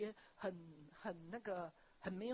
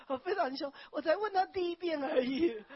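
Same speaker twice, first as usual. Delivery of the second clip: indignant; 7 semitones higher, 12 dB louder than usual. Retold or imitated. Retelling coach's anger, near tears.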